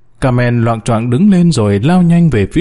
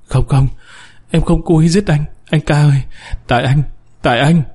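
a touch of desperate lament; mild anguished cry; 2 semitones higher than usual. Acted. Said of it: "kêu thống thiết". (than khóc thống thiết nhẹ)

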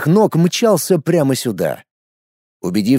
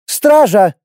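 high, loud call; sharp order; 7 semitones higher, 5 dB louder than usual. A narrator's reading. Lorana sharply summoning the guards. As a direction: bark for the guards. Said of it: "резко приказала Лорана".

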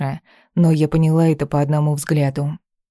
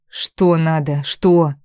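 angry crying; much slower than usual. Acted. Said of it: "заорала в ответ, захлёбываясь слезами".

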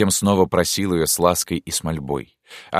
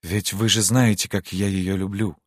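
gentle, guilty appeal; 3 semitones higher than usual. Acted. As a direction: plead gently for understanding. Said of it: "мягко и виновато спросил принц". (мягко, оправдываясь)

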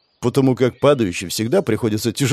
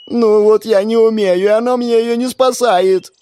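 high, loud tearful wail; wailing sob; 11 semitones higher, 5 dB louder than usual. Acted. Stuck on the rope, Lucille wails at the ratnik in tears. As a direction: bawl it out in despair. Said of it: "проревела она".

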